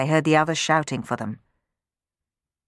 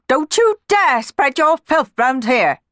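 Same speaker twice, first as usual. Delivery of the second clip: higher, louder, slow and disdainful; stern housekeeper; 10 semitones higher, 6 dB louder, slower than usual. Acted. Housekeeper warning the dirty sweeps, slow contemptuous threat.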